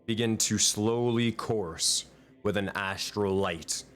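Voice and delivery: dramatic scene-setting narration; game master narration. Acted. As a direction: paint the scene for the players.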